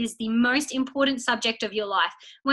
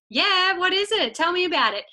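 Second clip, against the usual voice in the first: curious friend; 7 semitones higher than usual. Retold or imitated. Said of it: "Maddie might be like".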